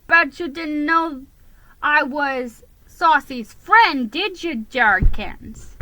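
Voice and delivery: slow, teasing, smug boast; smirking. Acted. Cousin showing off his famous friend, smugly. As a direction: rub it in with a smirk. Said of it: "he smirked".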